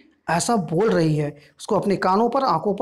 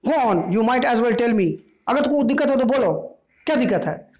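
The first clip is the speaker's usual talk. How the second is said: raised, heated challenge; angry; 3 semitones higher than usual. Acted. Daughter angrily defending going out with Charlie Spence. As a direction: dare her to object. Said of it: "Doris गुस्सा के बोलती है".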